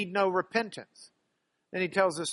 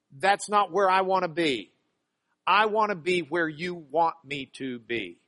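sincere prayer; 3 dB louder than usual. Acted. Believer answering Jesus's call, earnest prayer. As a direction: pray it sincerely. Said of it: "my reaction would be".

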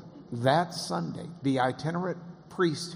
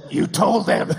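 louder and higher, laughing through it; laughing accusation; 7 semitones higher, 9 dB louder than usual. Retold or imitated. Scalia laughing as he accuses his host, louder. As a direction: tease him while laughing.

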